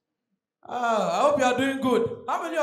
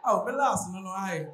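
pleading Fanti; 3 semitones lower, 3 dB quieter than usual. Retold or imitated. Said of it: "kneel down and beg the A T M".

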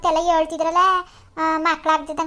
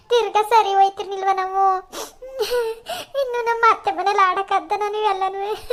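crying through the words, voice breaking; tearful plea; 3 semitones higher than usual. Acted. Daughter begs her mother to make up, crying. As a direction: plead with her mother while sobbing. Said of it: "ಆಯ್ತು ಅಳ್ಬೇಡ".

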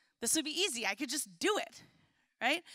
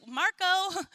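playful pool-game call, pitched up; sing-out mock search call; 4 semitones higher than usual. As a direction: call out searchingly for a hidden player. Calling out in hide and seek.

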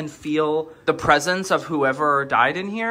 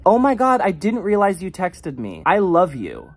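mock gushing apology; gushing friend; 3 semitones higher, 3 dB louder than usual. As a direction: imitate an effusive apologetic friend. Imitates a friend's apologetic text.

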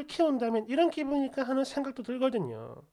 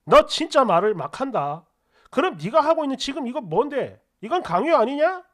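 retold husband's sharp comeback, louder; angry retort; 5 dB louder than usual. Husband retorts that she is the one coercing, angry. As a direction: throw it right back at her.

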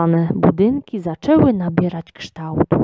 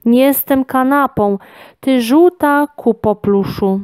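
higher, mildly furious little voice; enraged squeak; 6 semitones higher, 3 dB louder than usual. A narrator's reading. Tiny gnome sat on by the lion, indignant higher squeak. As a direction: squeak in indignation, lightly acted. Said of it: "rozległ się rozwścieczony pisk".

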